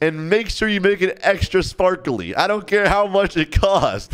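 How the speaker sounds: put-on entitled customer; demanding. Acted demanding rich girl orders.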